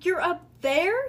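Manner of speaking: high, slow, loud disbelief; surprised. A narrator's reading. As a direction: ask it astonished, rising at the end. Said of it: "surprised voice".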